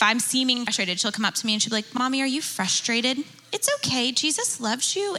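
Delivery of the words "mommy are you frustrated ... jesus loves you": a hint of a small child, pitched higher; lightly voiced little daughter. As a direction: sweetly comfort mommy like a toddler would. Three-year-old daughter voiced comforting mom.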